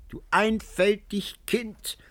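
high, slow whispered tease; cackling whisper. A narrator's reading. Old woman teases Antonio, high whispered cackle. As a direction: whisper it like a giggling crone. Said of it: "Die Alte kicherte und lachte".

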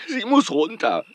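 loud sudden burst of despair; bursting out in desperation; desperate outburst. Acted. Desperate outburst about rival.

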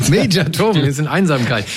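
laughing it back, pitch up; amused repeat through laughter. Real, not acted.

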